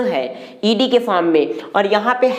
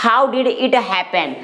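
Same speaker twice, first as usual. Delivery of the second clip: very slow, word by word; drawn-out model sentence; slow teaching demo; much slower than usual. Shown as a demonstration. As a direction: lay each word out for learners. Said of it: "नहीं समझ पा रहे होंगे".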